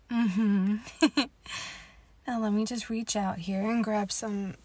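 normal talking voice

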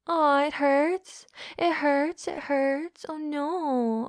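mocking mimicry. Dominant parroting partner's complaint, mock whine. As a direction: mimic the complaint with fake pity.

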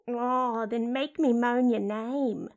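sultry inner-voice aside; brazen talking-vagina character. Acted. Inner voice interjects lewdly.

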